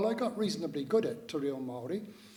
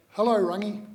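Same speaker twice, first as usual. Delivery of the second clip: louder, higher answering hail; calling back; 4 semitones higher, 7 dB louder than usual. Retold or imitated. Boy answers the elderly man outside the shop, calling back. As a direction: return a greeting across a distance. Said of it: "would call back".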